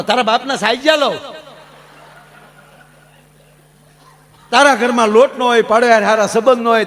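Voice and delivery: a daughter's indignant retort; mock scolding. Daughter scolding the rude suitor.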